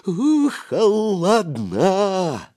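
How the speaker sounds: shivery exclamation. A narrator's reading. Boy describing icy northern sea.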